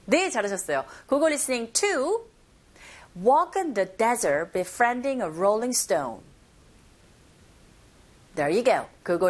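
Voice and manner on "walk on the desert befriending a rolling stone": slow model, punching "Walk", "desert", "befriending", "rolling stone"; content words stressed. Shown as a demonstration. Teacher models for learners, slow, "Walk" and "desert" stressed. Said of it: "머물지 마시고 빨리 넘어가시면".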